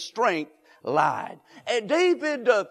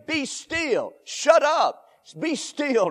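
emphatic command; 5 semitones higher, slower than usual. Acted. Preacher punching a blunt command.

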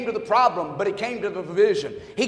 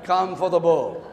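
slow drawn-out word; 4 semitones lower than usual. Retold or imitated. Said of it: "read this word real slow".

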